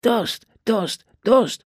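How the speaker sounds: the rascals bellow at their uncle for a drink; bellowing boys. Acted. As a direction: chant it like rowdy little boys. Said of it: "brüllten die Racker".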